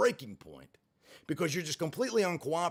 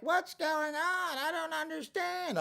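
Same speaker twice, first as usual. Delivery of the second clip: high, slow and baffled, a put-on older woman; mock bewildered mom voice; confused old mom; 13 semitones higher, slower than usual. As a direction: play the lost mother, slow and high-pitched. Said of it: "She's like".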